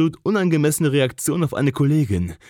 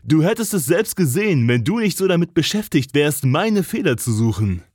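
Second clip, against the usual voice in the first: lower, steady, slightly teasing voice; a touch deeper. Acted. Cole to Jess, close and provoking, lower voice. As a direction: lean in with a lowered voice. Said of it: "die Stimme eine Spur tiefer als nötig".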